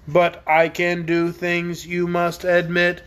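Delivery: slow, steady, lightly mechanical voice; clockwork man. Acted. Tick-Tock comparing himself to the dragon, slow and even. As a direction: speak evenly like a wind-up man.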